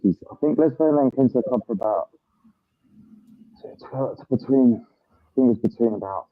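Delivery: muffled voice through headphones mic; speaking into headphones, dull and muffled. Real, not acted. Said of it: "says that you sound a little muffled".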